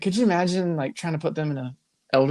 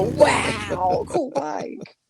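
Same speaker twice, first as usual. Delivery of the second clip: much higher, impressed voice; mock admirer; 11 semitones higher, much slower than usual. Imagined fan gushes at biker, high pitched. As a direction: gush over the bike.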